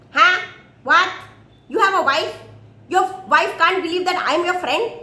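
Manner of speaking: astonished little outbursts as the monkey; surprised monkey. Acted.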